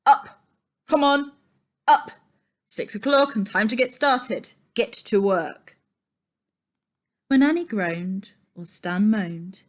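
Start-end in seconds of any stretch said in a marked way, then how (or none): 0.0-5.8 loud barked orders; yell. A narrator's reading. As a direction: shout them out of bed. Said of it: "Ernie would yell".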